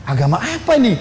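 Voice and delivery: high-pitched puzzled question; baffled. Retold or imitated. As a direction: voice his astonished curiosity. Umar baffled and curious again.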